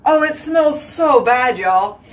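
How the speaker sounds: overwhelmed by the smell; disgusted by smell. Real, not acted. Dog poop smell in bathroom.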